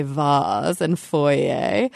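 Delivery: "vase" as "vahz", "foyer" as "foy-ay"; French-style endings on "vase" and "foyer"; pretentious pronunciation. Shown as a demonstration. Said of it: "which we do not say".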